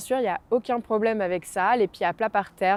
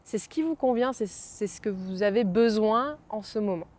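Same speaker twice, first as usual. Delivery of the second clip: guided meditation. Acted. Guides breathing exercise. (voix de méditation guidée)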